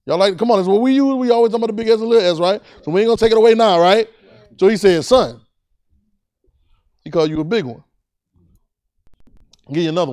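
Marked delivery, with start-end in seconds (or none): 0.1-5.4 raised, louder preacher's voice; emphatic preaching. Real, not acted. Preacher reasoning with the congregation about big and little S, emphatic preaching. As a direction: press the congregation for agreement.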